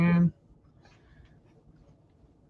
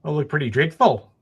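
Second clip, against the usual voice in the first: a light Australian accent on the line. Shown as a demonstration. Co-host asked to say the reporter's line, light Australian accent. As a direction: repeat the line with an Australian twang. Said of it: "can you say that in an Australian accent".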